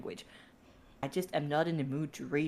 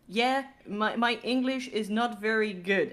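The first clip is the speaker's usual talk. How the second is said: put-on Dutch accent; 4 semitones higher than usual. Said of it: "in a Dutch accent".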